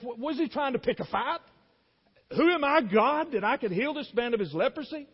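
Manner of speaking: as if someone wants to pick a fight with you; a touch of an outraged king. Acted. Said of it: "He gets the letter, the king of Israel, and says".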